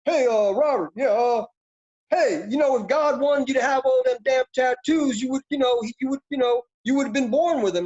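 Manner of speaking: loud, high Southern drill sergeant; southern drill instructor. Retold or imitated. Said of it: "drill instructor with his heavy southern accent said".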